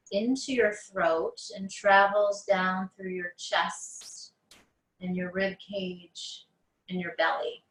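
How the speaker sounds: unhurried meditation guide, long pauses between phrases; guided meditation. Acted. Teacher guiding listeners on mats through breath awareness, guided meditation. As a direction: ease them into noticing the breath, phrase by phrase.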